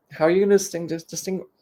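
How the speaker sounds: lisping through a mouthguard; talking around a mouthguard, lisping. Real, not acted. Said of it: "I'm lisping here".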